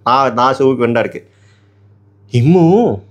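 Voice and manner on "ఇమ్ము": a louder call of "ఇమ్ము". Retold or imitated. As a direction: call "ఇమ్ము" across the room. గుసగుసలు మాట్లాడుతున్నాడు.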